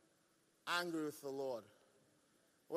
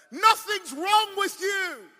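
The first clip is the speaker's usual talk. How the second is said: slow, high, preached verdict; emphatic pronouncement; 11 semitones higher, 12 dB louder, much slower than usual. Acted. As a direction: stretch "Nothing's wrong" out high and firm. Doctor's verdict acted in preaching climax.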